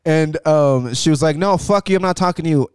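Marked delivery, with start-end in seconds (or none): 1.4-2.7 higher-pitched mock indignation; imitating a heated brush-off; retold angry customer. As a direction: act out a customer refusing to listen. Acted quarrel, angry customer.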